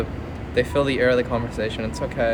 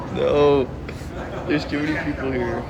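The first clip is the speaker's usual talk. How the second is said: laughing embarrassed; 4 semitones higher, slower than usual. Real, not acted. Laughing as people look at him.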